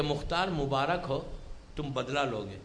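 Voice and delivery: low, soft, measured retelling; same unshaken tone. Retold or imitated. Misam congratulates chained Mukhtar, in the same unshaken tone. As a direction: keep it hushed and even, low in pitch. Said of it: "Maisam نے اسی tone میں کہا".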